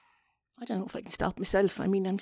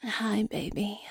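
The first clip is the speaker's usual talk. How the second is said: breathy attempt at a sexy greeting; mock seductive; much slower than usual. Shown as a demonstration. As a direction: try out a sultry come-on, half-whispered. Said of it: "they generally say things like".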